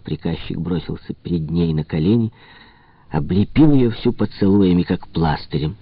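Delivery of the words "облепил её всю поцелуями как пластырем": plain reading voice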